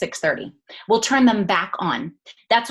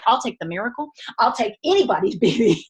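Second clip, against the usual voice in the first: mock pleading; 3 semitones higher, 4 dB louder than usual. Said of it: "I'm like".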